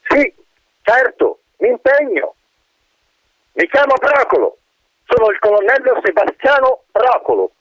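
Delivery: high, airy wind voice; whistling wind spirit. Acted. Trapped wind answers the colonel, eager and airy.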